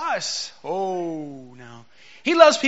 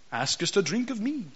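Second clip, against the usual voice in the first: put-on old KJV style; 6 dB quieter than usual. Shown as a demonstration. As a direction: intone "askest a drink of me" like lofty scripture. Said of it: "I read it like this".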